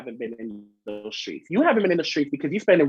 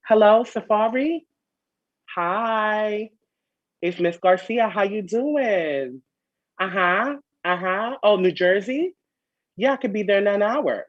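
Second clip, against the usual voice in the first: lightly voiced eager phone caller, slightly raised; imagined flirty caller; 4 semitones higher, slower than usual. Host imagines Kaylin phoning Safaree, lightly mocking sweet caller. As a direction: play one side of a phone call, drawing out the greetings. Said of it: "she probably was like".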